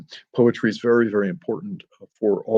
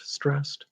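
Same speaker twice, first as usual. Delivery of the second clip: stressed lifted higher as the strong beat; 4 semitones higher, 9 dB quieter than usual. Shown as a demonstration. Speaker showing students a strong beat, pitched up. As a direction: tap out a strong pulse beat. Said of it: "You hear iambic pentameter".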